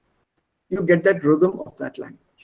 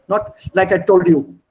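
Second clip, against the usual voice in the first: Indian English accent; 4 dB louder than usual. Shown as a demonstration. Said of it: "That's Indian English".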